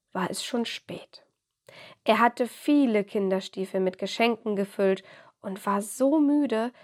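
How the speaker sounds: gentle storybook reading voice; story narration. A narrator's reading. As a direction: read it like a bedtime story. Reads a children's story.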